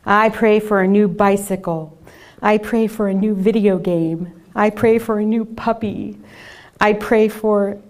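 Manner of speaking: put-on a touch of a shouting child; fervent loud prayer. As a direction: pray loudly like an eager kid. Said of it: "praying at the top of his lungs".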